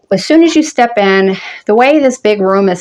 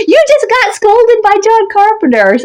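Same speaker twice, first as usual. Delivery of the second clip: imitated guffawing taunt; 14 semitones higher than usual. Husband teasing his scolded wife, imitated laughing taunt. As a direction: burst out in a hammed-up guffaw and tease. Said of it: "Just fucking burst out laughing".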